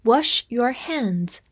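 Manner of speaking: slow, careful phrase reading; deliberate teacher pace; slow model phrase. Shown as a demonstration. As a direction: say it slowly for learners. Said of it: "常用的短语".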